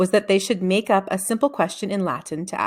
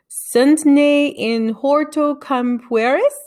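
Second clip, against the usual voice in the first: slow, higher, louder Latin read-out; halting Latin reading aloud; slow careful reading; 7 semitones higher, 6 dB louder, much slower than usual. A narrator's reading. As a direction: sound out each Latin word.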